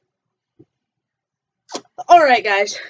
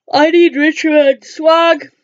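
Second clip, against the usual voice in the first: mock crying whine; 4 dB louder, slower than usual. Whining for loot, cry heard.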